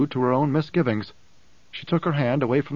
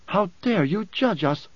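indignant challenge; 6 semitones higher than usual. A narrator's reading. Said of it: "shuddering breaths".

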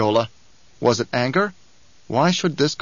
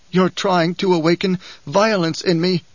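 panting; 5 semitones higher, 4 dB louder than usual. Acted. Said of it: "said in a panting voice".

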